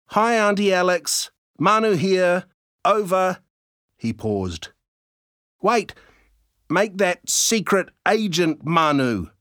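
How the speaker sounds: put-on chirpy kid reporting in; young boy voice. A narrator's reading.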